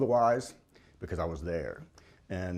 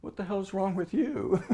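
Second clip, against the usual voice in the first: amused wife quote; 11 semitones higher than usual. Retold or imitated. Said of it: "She goes".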